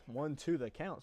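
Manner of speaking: breathless call between pitches; winded, still catching breath. Real, not acted. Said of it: "Sorry, I'm a little out of breath".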